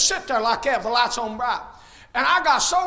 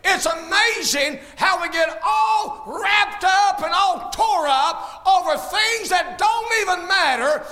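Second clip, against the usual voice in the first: fiery preaching. Acted. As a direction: preach it out to the whole church. Preaching to the congregation.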